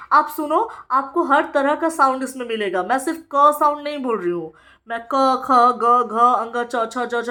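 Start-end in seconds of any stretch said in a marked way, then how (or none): 5.1-7.3 क, ख, ग, घ, अंग, च, छ, ज, झ recited as separate phonic syllables; reciting letter sounds. Shown as a demonstration. Teacher listing all the sounds, क to झ recited phonically. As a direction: sound out क to झ one after another. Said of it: "सारे sounds को उच्चारण कर रही".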